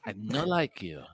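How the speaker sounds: high, fussy diva cat who won't be touched; Mary Cheese cat voice. Acted. Owner voicing her cat to her friends, high and haughty. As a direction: play the haughty cat snubbing strangers. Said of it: "she talks like this, as Mary Cheese, as Kitty Kate".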